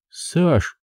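slow, high broken news; a widow barely getting the words out; quavering grief; trembling voice. A narrator's reading. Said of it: "дрожащим голосом сообщила Зинаида".

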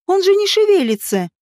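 high-pitched alarmed cry; panicked cry. A narrator's reading. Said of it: "закричала Женька".

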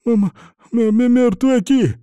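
high, loud, slow stuttering panic; terrified stammer. A narrator's reading. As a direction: stammer it out in terror. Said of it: "заикаясь". (заикаясь от ужаса, высоко и громко)

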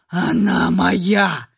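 low, slow guttural growl; growling claim. A narrator's reading. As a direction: drag it out like a beast guarding prey. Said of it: "Второй Ашер издавал утробное рычание". (утробное рычание)

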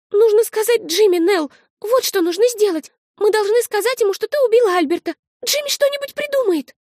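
put-on a frightened child pushing a desperate plan; high girl's voice, frantic; panicky little girl. Little sister voiced high and urgent.

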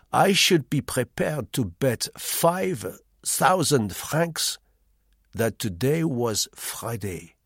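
a lightly voiced sly foreigner, slow and deliberate; sly Frenchman. A narrator's reading. The sly man baits the narrator with a bet, slow and knowing. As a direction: lean in and dangle the bait slowly.

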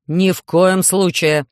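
испуганный запрет, медленно; резко останови дочь; кричит. Acted. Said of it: "закричал Селезнёв". (профессор кричит на дочь)

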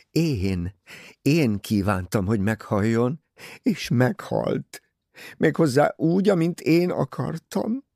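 usual speaking voice

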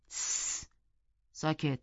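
low, soft shush; hushing. A narrator's reading. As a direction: cut in with a quiet hush. Hushing Heathcliff's story, cutting in.

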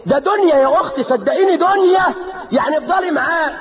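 high, pleading exhortation; urgent preaching cry. Real, not acted. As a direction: press her hard to see it's only this world.

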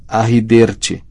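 "Arriderte" with consonants mangled; bloodied-mouth speech. A narrator's reading. Ron tries to explain through injured mouth, garbled "Arriderte". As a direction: attempt the word thickly as "Arriderte". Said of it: "sua boca estava ensanguentada".

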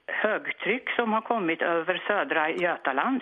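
imitated forecaster's open ö in "Götaland". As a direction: open ö in "högtryck" and "södra Götaland". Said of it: "det här öppna öljudet".

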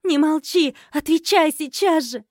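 high, loud angry shout. Acted. Wife shouting at her silent husband, high and loud. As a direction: yell at him to answer. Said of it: "перешла на крик".

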